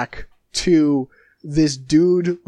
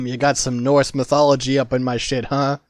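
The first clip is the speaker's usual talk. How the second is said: Vinny impression; 2 semitones lower, faster than usual. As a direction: toss it off fast and unbothered like Vinny. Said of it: "Vinny's like".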